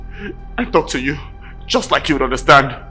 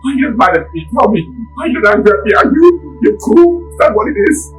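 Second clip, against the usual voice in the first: much higher, insistent; heated challenge; 9 semitones higher, 4 dB louder than usual. Acted. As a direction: demand she explains her anger. Driver pushes back at her anger.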